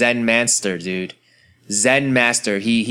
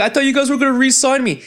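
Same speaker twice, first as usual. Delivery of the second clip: mock Jeremy Lin; 13 semitones higher, faster than usual. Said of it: "He's like".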